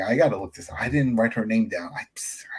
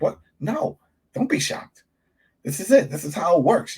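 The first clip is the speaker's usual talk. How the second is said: exasperated scolding; 7 semitones higher than usual. Retold or imitated. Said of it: "I'm like".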